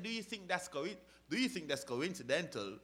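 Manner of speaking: lightly imitated British accent. Preacher quoting a London actor, light British accent. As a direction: quote it with a hint of British accent. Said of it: "he said it in his British accident".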